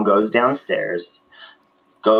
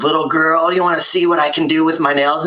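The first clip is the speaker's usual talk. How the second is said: lightly voiced higher monster, teasing; 6 semitones higher than usual. Pickle monster teasing the girl, light monster voice. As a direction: tempt the girl with menace. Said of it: "And he goes".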